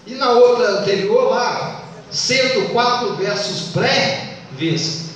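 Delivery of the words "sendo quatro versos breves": very slow scansion of the verse; deliberate teacher's counting demo; counting by sound. Shown as a demonstration. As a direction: draw the line out syllable by syllable. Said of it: "Você tá contando pelo som".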